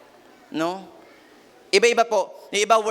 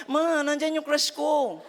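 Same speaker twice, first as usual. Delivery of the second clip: put-on much higher, slow and laughing, a giddy kid; giggly teen; 9 semitones higher, slower than usual. Teen telling mom the crush is here, giddy and laughing. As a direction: squeal about your crush through a laugh.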